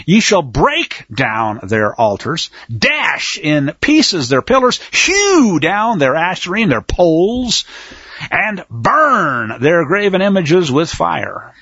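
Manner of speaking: slow, deliberate scripture reading; solemn reading of the commands. Shown as a demonstration. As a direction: read each command out slowly. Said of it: "I'll just read it straight".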